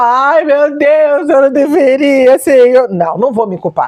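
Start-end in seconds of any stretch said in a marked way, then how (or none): 0.0-2.9 mock guilty wail, higher, very slow, drawn out.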